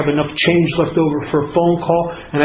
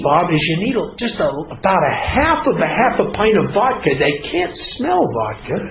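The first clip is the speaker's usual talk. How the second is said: inner voice. Acted. Alcoholic talking himself into a drink, mock-sensible coaxing. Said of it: "I start having a conversation with myself".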